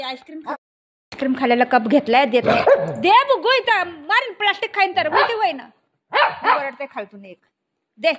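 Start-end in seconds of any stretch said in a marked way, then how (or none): 3.0-5.7 high-pitched scolding warning; exasperated scolding. Real, not acted. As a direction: warn a naughty pet, pitch raised. Threatening dog to give up plastic.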